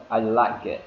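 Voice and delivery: "I like it" with a very light K in "like"; "like it" with the K greatly weakened; reduced K. Shown as a demonstration. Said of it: "phải giảm cái âm k đi".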